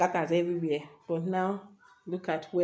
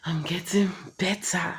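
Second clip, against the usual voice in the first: whispered. Shown as a demonstration. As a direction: breathe the words out. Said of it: "repeat of line 72".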